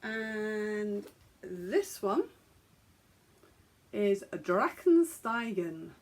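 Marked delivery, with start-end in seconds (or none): 4.3-5.9 slow, lightly German attempt; attempted German pronunciation. Shown as a demonstration. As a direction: try the German name slowly, emphatically. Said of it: "attempt the pronunciation of the colourway names".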